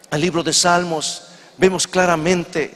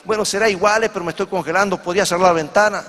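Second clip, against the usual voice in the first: higher-pitched, mildly exasperated acted request; insistent plea; 4 semitones higher, faster than usual. Freezing lady asks the Italian a second time, insistent plea. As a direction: press the request, pitched up a little.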